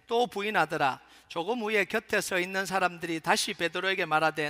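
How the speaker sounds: steady, projected Bible reading; measured recitation in a firm voice; scripture reading. Acted. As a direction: lead a congregation through the verses aloud. Reads the scripture passage.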